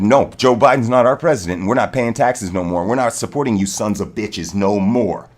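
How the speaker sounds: loud, defiant pretend speech to the government; defiant shout. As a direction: shout it like a rallying cry. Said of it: "What if the people said".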